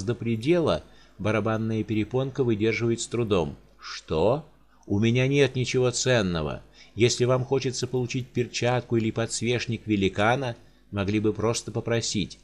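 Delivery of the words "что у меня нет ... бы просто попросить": sorrowful giant. Acted. Giant pleads with the countess over dead servants.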